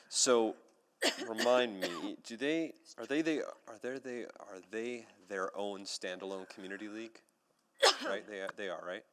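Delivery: coughing through the words; talking while choking on water. Real, not acted. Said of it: "I was choking too".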